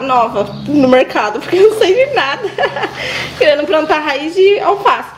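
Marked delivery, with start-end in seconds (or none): 1.4-5.1 giggling through the words, self-mocking; real laughter breaking into the line; laughing at herself. Real, not acted. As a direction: laugh it off as a clueless new farmer. Laughing at her own ignorance.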